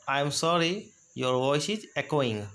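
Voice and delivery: slow and careful; slow model phrase. Shown as a demonstration. Teacher modeling a phrase about an echoing call, slow. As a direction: draw the words out. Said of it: "next example देखिएगा".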